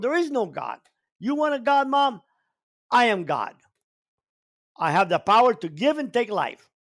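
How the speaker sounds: irate rant at mom. Retold or imitated. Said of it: "I got so irate".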